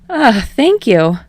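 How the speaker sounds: bright thanks. A narrator's reading. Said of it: "He smiles brightly".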